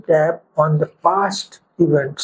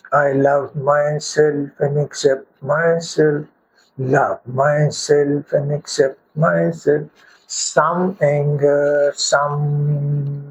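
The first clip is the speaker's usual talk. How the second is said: slow monotone chant, words evenly drawn out; guided affirmation meditation; slower than usual. Shown as a demonstration. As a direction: lead a repeat-after-me mantra, slowly and steadily. Leads a tapping affirmation meditation.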